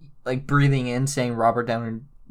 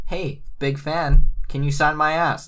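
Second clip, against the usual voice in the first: mock starstruck fan; 5 dB louder than usual. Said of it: "we're gonna be like".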